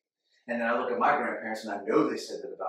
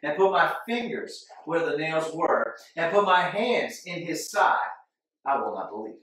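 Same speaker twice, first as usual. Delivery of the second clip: stubborn; 3 semitones higher, 4 dB louder than usual. Retold or imitated. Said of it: "He says".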